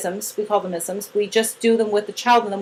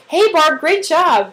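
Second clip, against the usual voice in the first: put-on bright, loud, high cheer for the child; big happy praise; cheerful praise; 6 semitones higher, 5 dB louder, much slower than usual. Shown as a demonstration. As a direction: celebrate her like a proud coach. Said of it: "you've been like".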